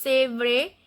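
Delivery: "C'est vrai" with the T in "C'est" left silent. Shown as a demonstration. Teacher sounding out French for learners, "C'est" with silent T. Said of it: "T is not pronounced".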